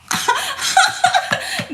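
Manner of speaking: high, loud burst of laughter; loud cackle. Real, not acted. Mother laughs loud while recalling the dresses.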